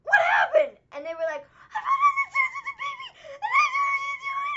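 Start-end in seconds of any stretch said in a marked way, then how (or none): 0.0-0.8 loud, high, startled call of "What happened?"; alarmed shout. Retold or imitated. Calling out alarmed again. 1.4-4.6 high, loud, wailing mock child voice; imitating a crying kid. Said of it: "screaming and yelling and crying".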